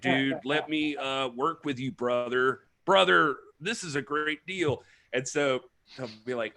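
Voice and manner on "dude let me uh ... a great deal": slow, drawn-out Southern accent with a mock wrestler swagger; hammed-up Southern accent, leaning on brother. Guest imitating a British wrestler's mock Southern promo voice, in a Southern accent. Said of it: "a British person doing a Southern accent".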